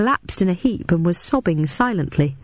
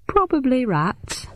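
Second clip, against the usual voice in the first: Frampton voice; 7 semitones higher, slower than usual. A narrator's reading. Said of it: "said Frampton".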